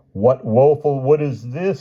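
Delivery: high-pitched squeal of dismay; high storybook squeal; squealing Hyde. A narrator's reading. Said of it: "squealed Hyde".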